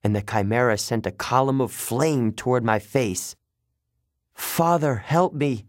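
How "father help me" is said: desperate prayer. Acted. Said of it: "I prayed".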